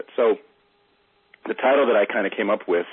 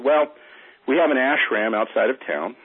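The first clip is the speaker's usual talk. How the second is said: guru voice; 6 semitones higher, 4 dB louder than usual. Acted. Second guru voiced in parable.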